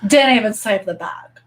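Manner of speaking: put-on Valley Girl disbelief; Valley Girl accent. Shown as a demonstration. Repeating the gossip's punchline for viewers, Valley Girl accent. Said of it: "What's Valley Girl?".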